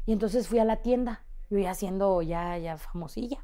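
juicy gossip, dropping to a hush at the end; gossipy tone. Real, not acted. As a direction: lean in and dish it. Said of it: "cuando pones el tono así de chisme".

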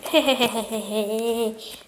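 long, even "hehe" mock laugh; put-on cackle. Player reacting to a game joke, drawn-out mock laugh. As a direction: chuckle on and on in a put-on voice.

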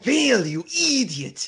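high, loud exasperated yell; exasperated shout. Real, not acted. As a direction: yell at the dumb hero. Shouting at a character.

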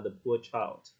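put-on "child" said compactly in the phrase. Shown as a demonstration. Teacher showing connected speech, "child" kept short. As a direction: run "the poor child" together. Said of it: "Đọc nhanh nó sẽ là".

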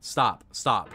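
loud repeated commands, urgent; frantic yelling. Real, not acted. Player yelling at his sliding character, frantic and loud. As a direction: shout stop at the screen.

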